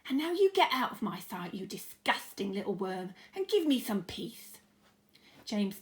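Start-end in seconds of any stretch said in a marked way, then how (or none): 0.1-4.6 angry dismissal. Acted. Aunt Spiker dismissing James.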